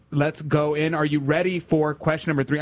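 ordinary talk

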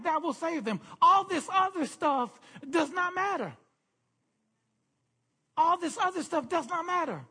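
forceful sermon with punched key words; emphatic preaching. Real, not acted. Pastor telling the church what the lost world needs to hear, emphatic preaching. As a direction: proclaim it to the whole congregation.

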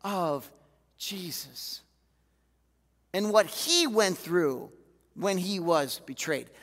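relaxed, slowed buddy tone; a gentle nudge from a mate; casual God voice. Retold or imitated. Holy Spirit correcting the preacher, casual and slow. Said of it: "the Holy Spirit smacks me ... says".

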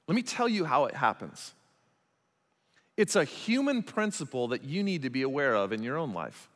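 usual speaking voice

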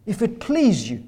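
butter him up gently; seductive flattery. Retold or imitated. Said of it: "Haman is seductive".

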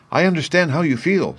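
put-on high-pitched, sympathetic little girl. A narrator's reading. Little girl truly sorry for the scarecrow, high and sympathetic. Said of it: "who was truly sorry for him".

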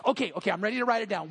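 quick, eager rush of words; acted eagerness. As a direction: hurry it out, mock-keen to start. Excited worker runs back to Tim.

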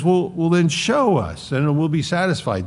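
high, eager plea; pleading disciple. Retold or imitated. Philip voiced again, high.

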